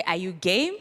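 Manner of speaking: rising call to the crowd; call line. Shown as a demonstration. Speaker teaching students the call, rallying rise. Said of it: "So we say".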